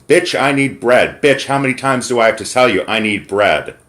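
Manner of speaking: imitating rude demand. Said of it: "he starts demanding bread from her".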